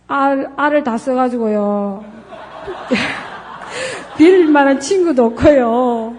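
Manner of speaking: put-on apologetic child.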